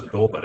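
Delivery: Dorbit with a sounded final t; own-name pronunciation. Shown as a demonstration. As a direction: say Dorbit as "DAW-bert". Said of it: "actually calls himself Dorbit".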